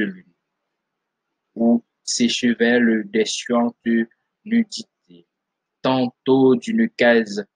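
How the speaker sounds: measured poetry reading, pausing after each phrase; solemn literary read-aloud; poem recitation. Acted. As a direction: recite verse phrase by phrase, with weight.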